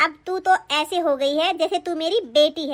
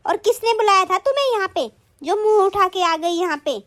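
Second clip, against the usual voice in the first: angry scolding. Acted. Sister-in-law scolding her husband's visiting sister, angry. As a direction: berate an unwelcome guest. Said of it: "ऐसे मत चिल्लाओ".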